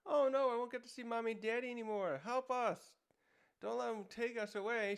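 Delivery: put-on panicked kids. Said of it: "the kids start freaking out".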